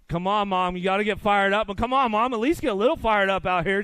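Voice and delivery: rally mom to cheer, loud and up; calling out to mom. Real, not acted. Announcer calling out to his mom, loud and teasing.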